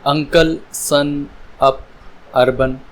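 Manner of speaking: spaced words, U said as अ in अंकल and अप. Shown as a demonstration. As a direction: model an "uh" vowel in अंकल, सन, अप, अर्बन. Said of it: "यू की sound निकलती है". (अंकल, सन, अप में यू की अ आवाज़)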